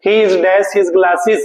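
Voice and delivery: very slow, word by word; slow sentence read. Shown as a demonstration. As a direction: spell the sentence out slowly. Rereading sentence slowly. (बहुत धीरे-धीरे वाक्य पढ़ना)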